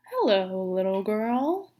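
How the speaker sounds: a hint of a growly wolf, slowed down; mild growly wolf. Wolf greeting Little Red Riding Hood, understated growly voice. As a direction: lightly voice the sly wolf greeting the girl. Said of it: "said a deep, growly voice".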